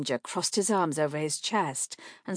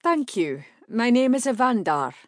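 courteous stranger; 6 semitones higher, 6 dB louder than usual. A narrator's reading. Evandar introduces himself.

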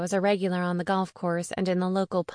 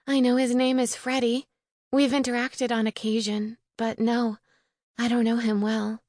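higher-pitched voice for a distressed friend; lightly voiced upset witch, pitched up; distressed young witch; 3 semitones higher than usual. Sophie explains how she found the coffin, higher, earnest voice.

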